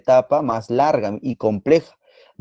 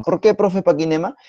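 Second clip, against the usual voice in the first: imitated student question; 4 semitones higher than usual. Teacher voices a student's question.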